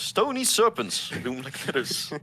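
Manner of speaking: slow, drawn-out storybook reading; scene narration. Acted. Game master setting the lair scene for players, slow narration. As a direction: read it slowly like a game master. Reads game's scene text.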